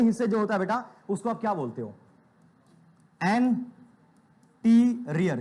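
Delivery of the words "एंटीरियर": teacher slowly drawing out एंटीरियर; drawn-out term. Shown as a demonstration. Teacher drills students, slowly stretching एंटीरियर. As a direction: stretch every syllable slowly. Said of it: "क्या बोलते हो बेटा?".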